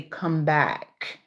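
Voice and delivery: quick neat Saint Thomas way of saying Come back; neat Saint Thomas accent. Retold or imitated. Contrasting the proper Saint Thomas way with Clarendon, neat Saint Thomas accent. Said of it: "people from Saint Thomas would say".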